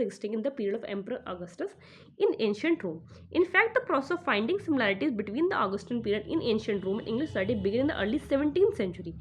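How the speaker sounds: reading the English passage aloud, slowly and evenly; deliberate exam-passage read, word by word. Acted. Teacher reads the passage aloud to students, slow and measured.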